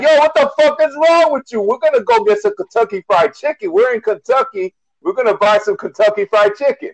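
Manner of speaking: lightly voiced pushy friend insisting; Italian guy. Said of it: "an Italian guy telling the black guy".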